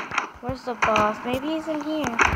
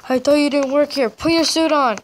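bossy scolding. Retold or imitated. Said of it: "I was like".

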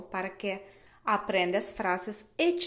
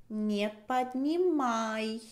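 slow model; slower than usual. Shown as a demonstration.

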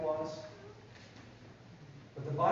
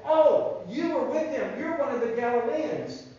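loud, higher accusation; accusing bystanders; 5 semitones higher, 7 dB louder than usual. Acted. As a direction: call him out in front of everyone. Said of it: "people stared at Peter and they said".

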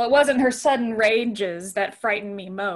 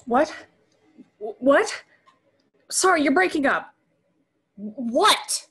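calling out on a bad line; 4 semitones higher, 5 dB louder than usual.

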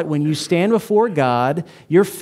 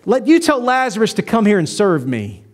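mild demanding rich man; 5 semitones higher than usual. Retold or imitated. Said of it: "You know what he says".

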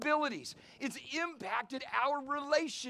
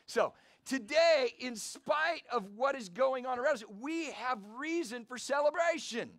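louder repeat. Shown as a demonstration. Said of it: "you gotta be louder".

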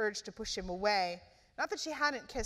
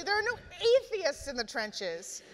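furious; 8 semitones higher, 4 dB louder than usual. A narrator's reading. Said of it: "said Simon furiously".

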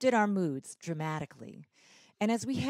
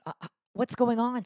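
higher, louder, fast bewildered question; puzzled; 6 semitones higher, 5 dB louder, faster than usual. Retold or imitated. Daughter asking her mother what happened, fast and puzzled. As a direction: caught off guard, looking up from the phone.

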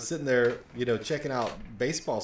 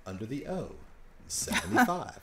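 bingo caller. Pretend. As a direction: sing out the number to the room. Joining the mock bingo calling.

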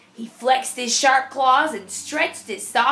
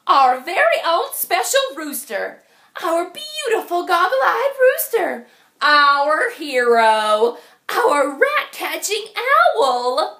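cheering hens; 4 semitones higher, 4 dB louder than usual. Acted. Hens cheer their hero.

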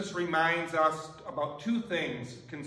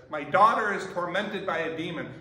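raised, louder plea to a distant rabbi; retold yelling; 5 dB louder than usual. Mother calls out to Jesus from afar, raised plea. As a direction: call it out across a crowd, half-voiced. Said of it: "and she's yelling it".

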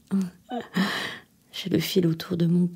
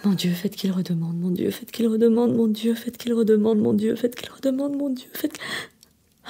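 desperate prayer; 2 semitones higher than usual. Acted. Praying the phone rings again.

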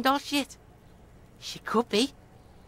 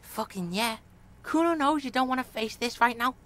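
put-on street-kid bravado, then backing off; Kuno's street-kid voice. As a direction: talk tough, then shrug it off.

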